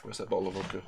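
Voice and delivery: put-on lightly slurred drunk voice; a hint of a drunk, sagging; drunk person impression. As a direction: mumble it like a tipsy man hunting the bottle. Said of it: "I can do a very good drunk person impression".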